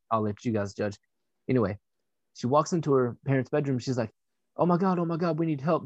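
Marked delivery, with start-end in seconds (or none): 4.6-5.8 higher-pitched imitation of alarm; panicked girlfriend. Girlfriend bursting into parents' bedroom, mock panic. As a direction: act out her urgent cry for help.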